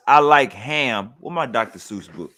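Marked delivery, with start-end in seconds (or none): 0.1-1.1 reading aloud. Retold or imitated. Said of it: "and it says".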